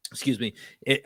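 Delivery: recovering from a cough, choked up; choking. Real, not acted. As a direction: speak just after choking on something. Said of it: "I'm choking".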